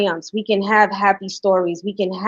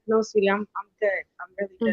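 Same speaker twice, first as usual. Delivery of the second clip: softer, gentle mom reassuring; soft reassurance; 7 dB quieter, faster than usual. Retold or imitated. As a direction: hush it kindly to her son. Mom gently declines son's offer.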